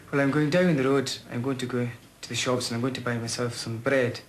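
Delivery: a light, lilting West Highland accent. Shown as a demonstration. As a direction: speak it in his old Highland accent from Oban. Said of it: "My old native tongue, I'd say, like, for example".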